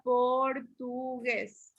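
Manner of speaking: "portugués" slowly split por-tu-gués; syllable by syllable. Shown as a demonstration. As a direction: sound out "portugués" slowly and evenly. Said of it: "lo separamos en sílaba".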